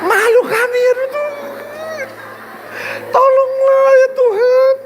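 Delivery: high, slow, whining plea to God; mock wailing prayer. Husband ashamed before guests, crying out to God in a high wail. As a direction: ham up a desperate crying prayer.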